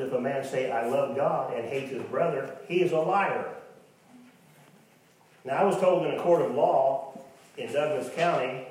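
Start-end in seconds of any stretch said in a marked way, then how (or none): 0.0-3.5 rising preacher's shout; loud scripture quote. Real, not acted. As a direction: proclaim it to the whole church. Preacher quoting Bible loudly.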